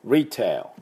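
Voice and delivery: retail with English r and a final l. Shown as a demonstration. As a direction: say retail with r and a dark l ending. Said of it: "こんな感じです".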